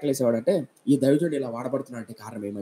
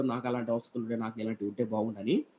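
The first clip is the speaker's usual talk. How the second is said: soft, lower, a touch of sorrowful longing; retold lament; 4 semitones lower, 8 dB quieter than usual. Preacher voicing a poor boy's tearful prayer, softly lamenting. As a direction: hush it down like a boy's sad prayer. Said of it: "కుర్రోడైతే ఏడ్చాడో".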